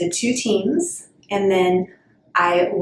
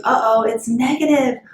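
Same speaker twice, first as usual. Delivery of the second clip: playful uh-oh, pitched up; higher, hammed-up bad-news reaction; mock dismay; 4 semitones higher than usual. Child finding a negative card, mock dismay.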